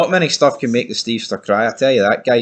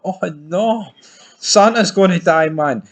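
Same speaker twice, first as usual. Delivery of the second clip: mock alarm; 8 semitones higher than usual. Real, not acted. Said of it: "mock alarm".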